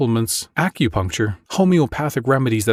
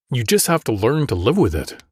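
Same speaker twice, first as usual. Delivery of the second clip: bored voice. Acted. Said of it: "said the E N T with a bored voice".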